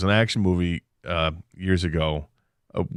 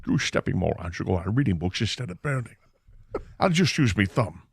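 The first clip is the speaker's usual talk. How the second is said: Sean Connery; 3 dB quieter than usual. Pretend. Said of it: "ends up being Sean Connery".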